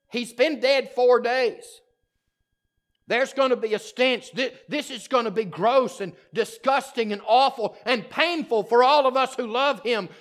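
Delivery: worried Martha. Acted. Martha protesting to Jesus about the stench, anxious.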